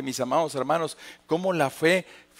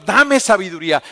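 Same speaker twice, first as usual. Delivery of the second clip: much louder, full-voiced cry for wisdom; loud plea; 4 semitones higher, 10 dB louder than usual. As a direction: call up to God with force. Crying out to God loudly. (clamor fuerte: dame sabiduría)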